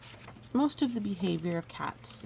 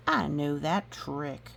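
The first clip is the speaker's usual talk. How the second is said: knowing donkey; 3 semitones lower, slower than usual. Acted. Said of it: "he says".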